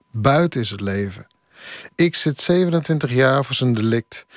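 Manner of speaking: calm reading of a free-verse poem. Acted. Poet reads his poem.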